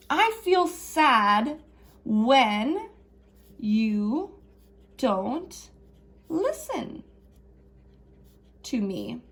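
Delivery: slow gentle modeled sentence; calm I message. Shown as a demonstration. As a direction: spell it out gently. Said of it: "So we're gonna say".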